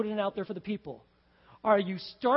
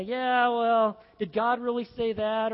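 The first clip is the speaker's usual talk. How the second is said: mock skeptic; 4 dB louder, slower than usual. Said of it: "to say".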